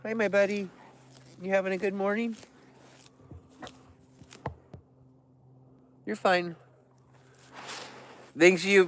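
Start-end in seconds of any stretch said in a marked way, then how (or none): 0.0-6.6 much softer gentle reassurance; quietly calm the animal down; soft soothing. Real, not acted. Soothing a bear cub, much softer and gentle.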